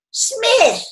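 high, amused echo of the name; surprised echo. A narrator's reading. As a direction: repeat the name in delighted surprise. Woman echoes Winston's name.

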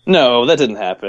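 slow, drawn-out disbelief; doubtful. Real, not acted. Co-host disputing a far-fetched underwear story, doubtful. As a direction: stretch out the no in doubt. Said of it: "the doubt in the speaker's voice".

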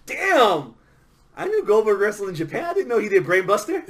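excited, fast commentator call; mock wrestling commentator. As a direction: call it like a stunned ringside announcer. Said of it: "you're gonna be like".

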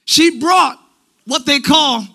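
halting, punched Pentecostal preacher rhythm on "She brought"; old school Pentecost cadence. Shown as a demonstration. Preacher slipping into old school Pentecostal style. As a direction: land "brought" hard and pause like an old preacher. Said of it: "my old school Pentecost coming out".

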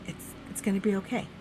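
softly spoken, unbothered reassurance; cool, calm reassurance. Retold or imitated. John calming the panicked dreamer, coolly reassuring. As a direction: imitate someone cool as a cucumber. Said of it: "he was cool as a cucumber".

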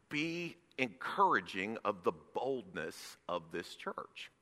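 softened exhortation. Real, not acted.

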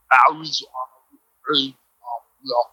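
mock English accent, halting; rough English accent. Comic imitating an actor's English accent as rough and garbled. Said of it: "His shit is, like, rough, man".

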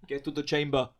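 Arnie impression. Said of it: "Do your Arnie impression".

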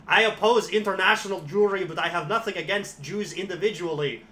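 bad Swedish accent. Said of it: "I can't do a fucking Swedish accent".

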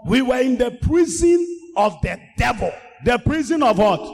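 rising preacher's chant; preaching. Acted. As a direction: drive the verses home to the church. Sermon call and response.

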